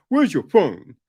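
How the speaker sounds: loud, curt dad's question; brusque demand. Retold or imitated. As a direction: fire off the question with no concern.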